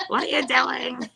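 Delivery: exaggerated high, slow mimicry; Eric. Repeating the Eric impression for a laughing friend, exaggerated imitation. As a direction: stretch the question out in a hammed-up high voice. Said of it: "that's a little exaggerated".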